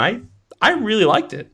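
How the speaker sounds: excited. Real, not acted. Enthusing about the movie.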